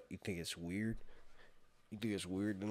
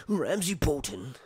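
higher, a bit louder Theon voice; Theon's line; 8 semitones higher, 8 dB louder than usual. Acted. First try at Theon before redoing it, tormented voice. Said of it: "Wait, let me do this right".

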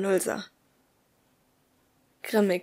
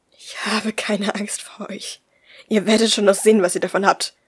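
threatening growl; 4 dB louder than usual. Acted. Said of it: "knurrte ich bedrohlich".

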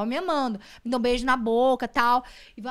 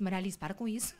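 hushed scolding; 2 semitones lower, 7 dB quieter than usual. Retold or imitated. Retold hushed scolding of toddler.

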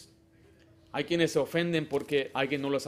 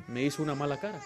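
hurt complaint; 3 semitones lower, 4 dB quieter, faster than usual. Retold or imitated. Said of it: "fuimos a visitarla y dice".

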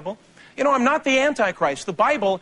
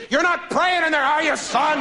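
higher mock-stern dad through a door; suspicious dad; 6 semitones higher than usual. Father pounding on the son's door at night, mock suspicion. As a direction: play the suspicious father checking on his son. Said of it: "pounding on his door at night".

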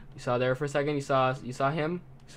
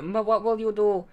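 evil mastermind; 5 semitones higher, 5 dB louder than usual. Acted. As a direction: taunt like a cartoon villain. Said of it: "an evil mastermind".

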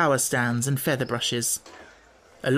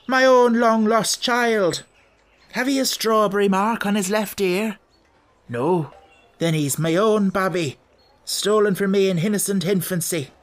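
hammy gypsy man; 5 semitones higher, 4 dB louder than usual. Acted. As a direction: overact the long-lost father. Gypsy man claiming the baby.

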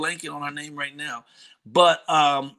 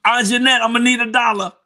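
calling out; 7 semitones higher, 6 dB louder than usual. Real, not acted. Calling out to aunt.

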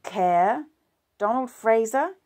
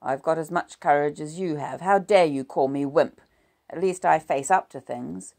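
1 indignant; 3 semitones higher, 9 dB louder than usual. A narrator's reading. Husband hits back in quarrel.

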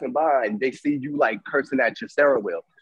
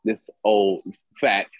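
dismissive self-talk; 5 semitones lower than usual. Retold or imitated. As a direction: talk yourself down, word by word. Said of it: "to say".

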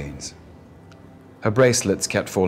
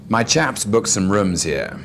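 Belgravia slur. Acted. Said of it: "Belgravia slur".

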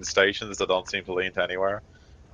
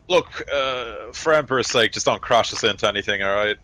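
gruff soldier voice; 3 semitones higher than usual. Acted. GM voices NPC warning pilot.

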